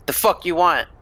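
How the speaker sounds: put-on a teen posturing to strangers at the door, hostile; tough teenager. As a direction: act hard like a punk kid at the door. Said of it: "a teenager trying to be tough say".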